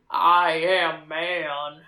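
slow, low mock macho drawl; a hint of John Wayne macho cowboy. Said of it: "that John Wayne".

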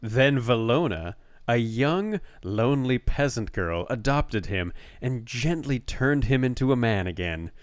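best reading voice. Shown as a demonstration. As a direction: draw out the dramatic phrases. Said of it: "I'll read it in my best, uh, voice".

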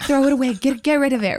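high, hurried instruction; urgent urging. Retold or imitated. Telling family to get rid of fallen hair, urgently.

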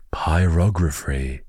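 Pyrography drawn out slowly, stressed on ROG; sounding out PYROGRAPHY. Real, not acted. Podcaster trying out a tricky word, slowly sounding out Pyrography. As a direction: feel your way slowly through Pyrography. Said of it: "Wait, no".

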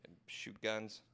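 whispered punchline; whispering. Acted. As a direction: drop to a secret whisper.

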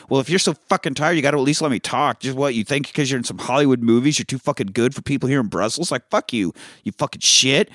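fast, mock-indignant tirade; retold angry rant. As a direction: rattle off the cabbie's complaint, mildly heated. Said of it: "this cabbie's just going off".

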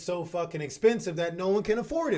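loud, fast, angry outburst; angry rant. Real, not acted. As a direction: spit it out in disgust. Ranting about expensive healthcare.

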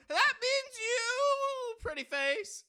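slow, high, loud threat; menacing robber. Acted. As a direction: drag it out, leering.

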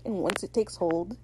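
soft, hanging build to an unfinished threat; mock dramatic. Izzy warns over dramatic music, mildly ominous. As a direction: intone it quietly, leaving the end suspended. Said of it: "there's, like, dramatic music playing in the background".

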